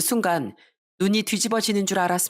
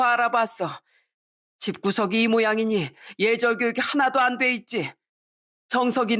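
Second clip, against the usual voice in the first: father's indignant, higher-pitched tirade; fiery anger; 4 semitones higher than usual. Acted. Father renounces his son at the engagement meeting, fiery anger. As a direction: scold and wash your hands of him. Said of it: "불같이 화를 내더군요".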